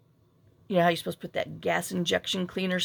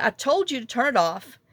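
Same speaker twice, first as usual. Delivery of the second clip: retold testy scolding, a little higher; mock I-told-you-so in a raised pitch; imitating his attitude; 4 semitones higher, 3 dB louder than usual. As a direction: scold with a bit of borrowed attitude. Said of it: "he started with his little attitude".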